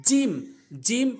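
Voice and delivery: "জিম" with mid-tongue against the palate; জিম উচ্চারণের নমুনা. Shown as a demonstration. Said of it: "জিহ্বার মাঝখানটা উপরে তালুর সঙ্গে". ("জিম", জিহ্বার মাঝখান তালুতে লাগিয়ে)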